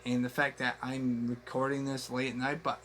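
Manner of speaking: hushed so as not to wake anyone; quiet at night. Real, not acted. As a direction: keep it down, it's late. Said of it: "I'm trying to keep my voice down because it's late night".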